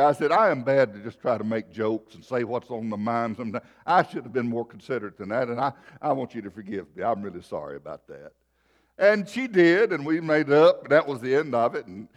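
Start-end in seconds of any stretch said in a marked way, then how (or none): 0.3-8.3 contrite apology. Retold or imitated. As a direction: soften and drop as you ask forgiveness. Retold apology to the crying woman.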